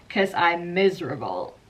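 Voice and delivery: slow miserable wail, nobody knows, rising loud at the end; raw miserable Taylor. Retold or imitated. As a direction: play it as bare, dramatic misery. Voicing Taylor's raw ending.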